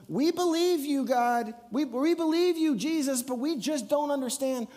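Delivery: high, loud, eager cry; fervent confession. Retold or imitated. Disciples and Martha cry out their belief to Jesus, fervent.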